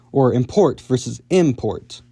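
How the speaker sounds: "import" said twice, once with stress on the first syllable and once on the second, slowly; stress shift demo. Shown as a demonstration. Teacher showing viewers how "import" moves its stress. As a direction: contrast the two stresses of "import" carefully. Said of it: "move the stress from the second syllable to the first".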